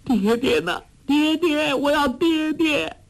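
put-on very high, wailing girlish cry; crying out for father. A narrator's reading. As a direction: sob and call for her father. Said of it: "大哭叫道". (哭喊着找爹爹)

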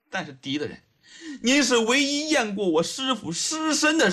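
hushed address, then rising appeal; earnest pleading. Acted. Young woman asks the judge to dictate her confession, pleading. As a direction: plead insistently, drawing out the last phrase.

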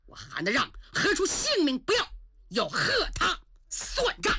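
indignant general, rising in anger; furious refusal to swallow the insult; angry outburst. Acted. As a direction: defy the emperor, voice climbing. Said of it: "韩德让把圣旨往地下一摔".

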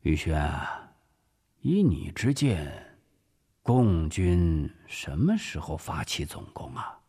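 low, offhand-sounding question; seemingly casual. Acted. Director sounding out his officer, seemingly casual. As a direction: ask as if it hardly matters. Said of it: "好像不经意地问".

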